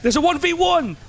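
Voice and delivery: high-pitched excited call; mock calling out. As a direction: spread the word at high pitch. Mimics calling crowd to match.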